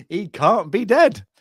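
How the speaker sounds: high, loud, drawn-out mock protest; indignant disbelief. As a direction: refuse to believe it, hammed up. Acts out indignant child listener.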